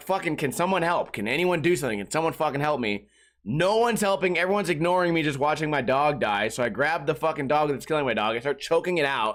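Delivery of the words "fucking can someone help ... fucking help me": plain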